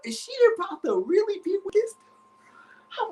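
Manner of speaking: rising, panicky inner voice ending in a high whisper; jealous boyfriend's panicked thoughts, whispered at the end; anxious inner monologue. Retold or imitated. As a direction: spiral into worry, fading to a frightened whisper. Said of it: "I'm like".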